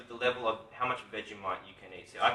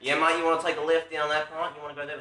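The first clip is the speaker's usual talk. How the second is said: hammed-up Australian, laughing a little; put-on Australian accent; 5 semitones higher than usual. Shown as a demonstration. Australian host showing how locals overdo it, broad Australian accent. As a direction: exaggerate your Aussie accent. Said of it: "we put on an Australian accent".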